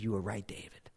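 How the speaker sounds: breathless whispered grief; whispered, broken-hearted. Retold or imitated. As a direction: let the last words fall to a whisper. Final repeat, unvoiced.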